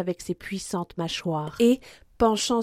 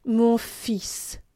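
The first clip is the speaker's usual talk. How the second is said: tenderness; 2 semitones higher than usual. A narrator's reading. Athos giving his hand to D'Artagnan, tender. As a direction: say it tenderly, without pushing. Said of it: "dans ses moments de tendresse".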